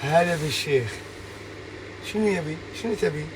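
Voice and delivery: demonstrating Gulf Arabic greetings. Shown as a demonstration. Asked how he would speak in the Emirates or Kuwait, Gulf Arabic. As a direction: speak Gulf Arabic in short, separate phrases. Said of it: "tu parles comment l'arabe?".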